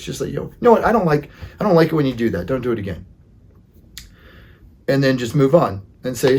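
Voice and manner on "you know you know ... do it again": firm matter-of-fact. Shown as a demonstration. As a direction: state it like a plain fact, briskly. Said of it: "matter-of-fact voice".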